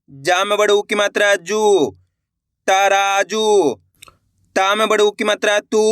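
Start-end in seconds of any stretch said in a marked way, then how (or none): 2.7-3.7 very slow blending. Shown as a demonstration. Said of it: "मेरे साथ साथ इनको रिपीट करना है".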